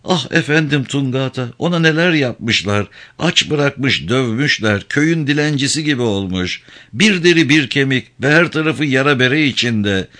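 high-pitched, distressed narrated lament; sobbing, acted. A narrator's reading. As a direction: voice a woman tearfully pouring out her grief. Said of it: "Sarah hıçkırdı".

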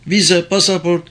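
high-pitched insistent demand; girl crying out. A narrator's reading. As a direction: demand it as the protesting young woman. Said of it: "diye bağırdı kız".

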